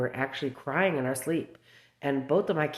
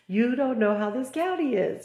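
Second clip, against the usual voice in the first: imitated warning; 9 semitones higher than usual. Retold warning from Blake.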